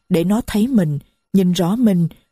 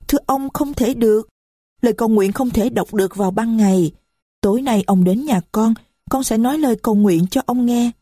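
put-on higher, small voice of a young girl; little girl's voice; 4 semitones higher than usual. Little Marie complains to the stranger, high child voice. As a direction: speak as a little child who is hurt. Marie refuses to pray now.

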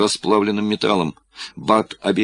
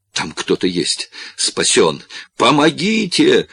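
loud cry for help, voice jumping up on помогите; shouting for help; 6 semitones higher, 3 dB louder than usual. Acted. Corlis calls out to a figure on the catwalk, shouting. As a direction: yell for rescue, rising to a shout. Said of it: "закричал он".

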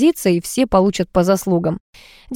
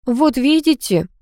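pleased; 7 semitones higher, slower than usual. A narrator's reading. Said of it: "обрадовался мой муж".

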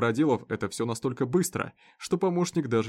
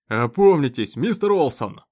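loud snarl with a stress on мистер; the sheriff barks the farmer back to order; growled; 3 semitones higher, 8 dB louder than usual. Acted. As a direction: growl it straight into his face. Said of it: "рыкнул ему в лицо шериф".

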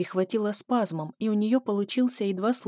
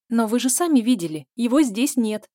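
louder, rushed, defiant blurt; blurted loudly; 4 semitones higher, 6 dB louder than usual. A narrator's reading. Zhenya blurts at the strangler to sell her trick. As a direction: blurt it as loud as you can. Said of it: "выпалила Женя как можно громче".

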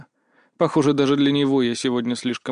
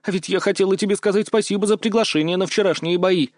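put-on higher girlish voice, teasing and bossy; lightly voiced girl, playful; 6 semitones higher than usual. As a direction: tease him like a cheeky friend. Mia's voice held. (слегка девичьим голосом, шутливо)

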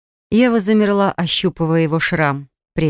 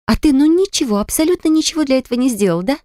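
much higher, mocking accusation; mock innocence, higher and pointed; sarcastic jab; 7 semitones higher than usual. Eva mocks Aram for doing nothing, higher mocking sarcasm.

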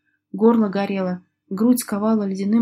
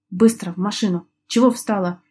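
commanding growl. Acted. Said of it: "приказным тоном рыкнул".

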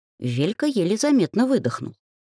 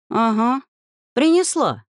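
gloomy reply; 8 semitones higher, 4 dB louder than usual. A narrator's reading. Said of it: "мрачно отозвалась я".

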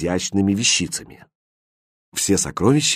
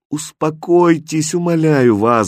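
plain reading voice

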